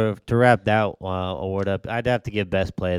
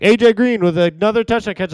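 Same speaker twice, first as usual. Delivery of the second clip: radio announcer; 11 semitones higher, 5 dB louder than usual. Retold or imitated. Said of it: "I was listening on the radio".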